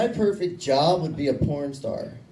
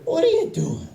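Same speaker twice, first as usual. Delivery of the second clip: high-pitched mock mom demanding answers; imitated mother. Mom walking in on son and dad, high fussing voice.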